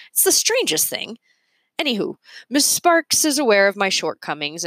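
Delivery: a daffy inventor admitting a flaw; eccentric inventor voice. Acted. The speaker's character voice.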